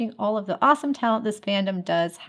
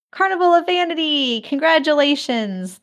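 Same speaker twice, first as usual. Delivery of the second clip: excited announcement; 5 semitones higher, 3 dB louder than usual. Real, not acted. Announcing the contest winner.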